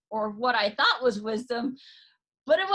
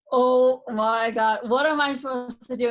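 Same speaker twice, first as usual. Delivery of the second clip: desperate cry to God; 7 dB louder than usual. Retold or imitated. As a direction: cry out to God, lost and overwhelmed. Lying in bed, overwhelmed, calling God.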